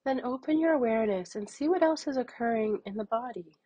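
measured meditation voice with long pauses; unhurried, even guidance, leaving room to breathe; guided meditation. Acted. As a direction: guide them gently through noticing anger.

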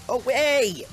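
high, loud sudden hey; startled indignant yell at a villager; sharp call-out. Real, not acted. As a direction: shout to stop someone mid-attack. God yells at attacking villager.

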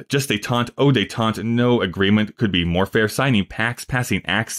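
put-on light French accent, zen and ze for then and the; half-sung recital with a touch of French accent. French admiral threatening the Dutch, in a light French accent. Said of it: "the French is saying".

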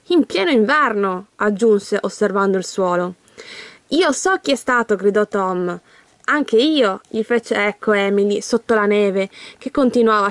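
put-on steady storybook reading for children; reading aloud to children; story narration. A narrator's reading. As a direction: read the story out clearly to young listeners.

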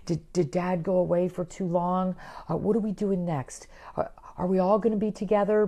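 lightly acted anxious fretting; mock worrying. Voicing a worrier dog missing its family, mildly anxious. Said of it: "So they worry".

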